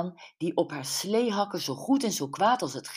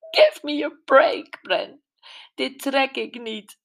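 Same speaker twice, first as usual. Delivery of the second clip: higher, much louder exasperated cry; exasperated Gwen; 9 semitones higher, 8 dB louder than usual. A narrator's reading. Gwen telling Brenda she can't take it, exasperated. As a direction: throw up your hands in exasperation.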